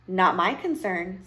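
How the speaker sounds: slow, indifferent witch; dismissive witch. Acted. Witch refuses the hungry princess, dismissive. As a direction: brush her off, taking your time.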